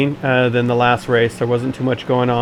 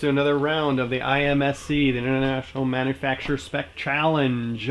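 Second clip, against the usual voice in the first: announcer voice; 2 semitones higher, 7 dB quieter than usual. Shown as a demonstration. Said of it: "there's my announcer voice for you guys".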